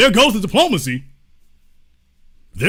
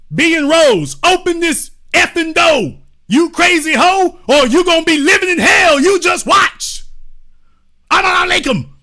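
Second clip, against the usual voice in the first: high, raised-voice mock rant; threatening; 7 semitones higher, 4 dB louder than usual. Angry visitor threatens the person inside, loud high mock shouting. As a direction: act out a hammed-up threat at full pitch. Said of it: "you threatening me".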